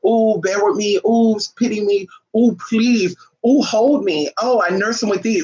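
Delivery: mock needy cooing with ooh on each line; whiny pleading mock. Mocking a needy partner asking for pity, whiny. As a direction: play a clingy lover begging. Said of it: "I gotta".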